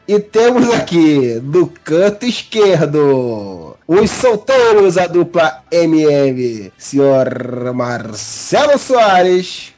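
slow, drawn-out fight host announcement; ring announcer. Acted.

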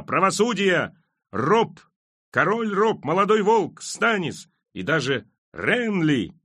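high rallying shouts; crowd cries. A narrator's reading. Voices in the mob cry for rival kings, high shouts. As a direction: throw each name out, pitched high. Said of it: "В общем шуме он расслышал голоса".

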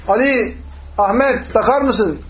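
demonstrating an everyday call to someone. Shown as a demonstration. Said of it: "biz birbirimize sesleniyoruz".

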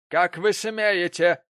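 slow outraged challenge. Acted. Prig outraged.

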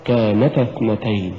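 كانتا with a gentle push on ن; light pulse on the نَ of "كانتا اثنتين"; correct recitation. Shown as a demonstration. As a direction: nudge ن in كانتا to hint the dual alif. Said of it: "دفعة لطيفة لحرف النون".

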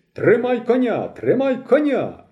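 високий протяжний крик; гучно, високо й повільно тягне, як у маренні. A narrator's reading. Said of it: "кричить Нікіцький". (високий розтягнутий крик уві сні)

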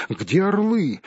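high eager hobbit. Acted. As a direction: ask like a curious young hobbit. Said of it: "спросил хоббит". (высокий голос хоббита)

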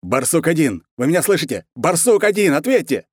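high, loud desperate radio call; yelling for an answer that won't come; desperate shout into a dead radio; colonel shouting. A narrator's reading. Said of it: "закричал полковник".

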